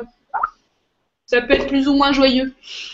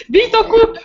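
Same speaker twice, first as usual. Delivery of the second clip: rieur et pressé; 5 semitones higher, 4 dB louder than usual. Real, not acted. Laughing end of the show.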